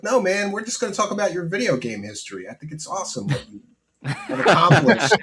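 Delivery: high, quick placating patter breaking into laughter; mock reassurance. Host retelling a lie to calm a guest, barely straight-faced. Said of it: "I totally lied to him".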